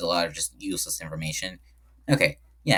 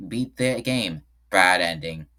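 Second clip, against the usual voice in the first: a DJ's voice; 2 semitones lower, slower than usual. Pretend. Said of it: that the speaker has to sing this in, uh, a DJ's voice.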